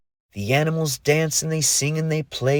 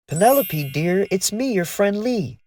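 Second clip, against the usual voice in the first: calling down a well; 8 semitones higher than usual. A narrator's reading. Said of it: "she screamed down the well".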